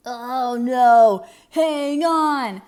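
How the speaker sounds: sudden loud alarm, oh no; startled at the missing cupcakes; surprised gasp. A narrator's reading. Pete and Gus discover the cupcakes gone, alarmed.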